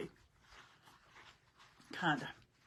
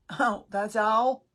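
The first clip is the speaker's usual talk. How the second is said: surprised; 3 semitones higher, 9 dB louder, slower than usual. Acted. Joking about twelve hours away.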